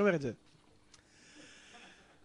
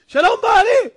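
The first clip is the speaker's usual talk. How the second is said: high, loud acted welcome; excited greeting; 12 semitones higher, 13 dB louder than usual. Wife greets husband back after weeks, excited greeting. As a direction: call out as the overjoyed wife.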